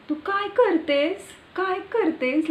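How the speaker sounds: high-pitched, quick Marathi village lilt; sing-song village Marathi with forced stress; Marathi village accent. Shown as a demonstration. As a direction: throw the pitch right up in a rural Marathi accent. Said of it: "Like this".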